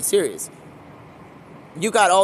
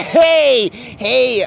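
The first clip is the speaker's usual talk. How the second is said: higher, louder hail to a group; calling out; 4 semitones higher, 6 dB louder than usual. Acted. Ben Affleck interrupts the dance contest, calling out loudly. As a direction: call out to get everyone's attention.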